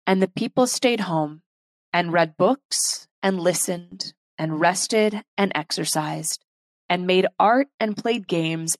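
measured spoken-word poetry; poem reading. Acted. Reads a poem aloud.

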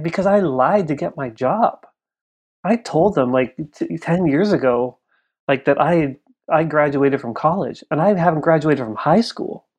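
pleading retold admission, words drawn out; retold crying dad. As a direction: confess like an upset father, without sobbing.

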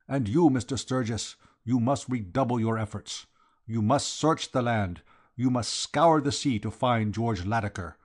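lightly voiced foreign Count, emphatic; Count, urgent exhortation. Count ordering the detective to search, urgent exhortation. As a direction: press each command with formal urgency.

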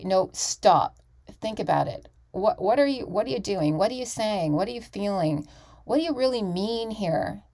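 mild mock coach, stopping her student; a touch of a demanding acting coach; imitating tough coach. Acting coach stopping her student mid-scene, mildly stern. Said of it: "she will stop you right in the middle and say".

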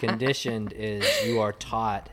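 slow, low teacherly definition; measured, deliberate correction; slow explaining. Real, not acted. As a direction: spell it out slowly. Teacher spelling out a distinction.

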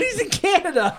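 high, laughing mock Canadian accent; bad Canadian accent. Border guard chasing a tumbler, hammed-up Canadian accent. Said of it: "That's a horrible Canada accent".

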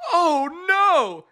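high, loud cry of alarm; shocked oh no. Retold or imitated. Father seeing his son fall dead, high loud alarm. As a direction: gasp it out as the boy drops.

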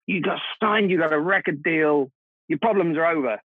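high, eager starry-eyed hope; naive excitement. Retold or imitated. Young musicians to each other, high naive excitement. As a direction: sell it like a kid dreaming of fame. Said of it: "we would go".

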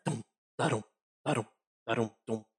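vocal drum beats, thump da-dum; drum thump imitation. Shown as a demonstration. GM imitating the tiefling's drum for the players, mock drum thumps. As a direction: beat out the drum with your mouth. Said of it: "like a thumbing sound".

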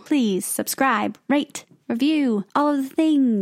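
slow, drawn-out mock British; playful British accent. Asking listeners to subscribe and review in mock British. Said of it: "We're British now".

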